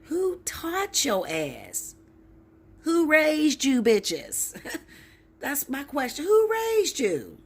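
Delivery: high, loud and slow, indignant; outraged. Real, not acted. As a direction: demand it like a scandalised elder. Outraged rant at Linda.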